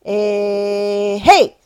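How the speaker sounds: окрик лошадям; calling the horses. Shown as a demonstration. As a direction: shout hey to the horses. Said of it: "It's for the horses".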